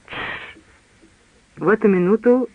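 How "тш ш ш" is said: a sharp whispered shush; hushing. A narrator's reading. Servant hushes the others at the door, whispered shush. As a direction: hiss them quiet at once.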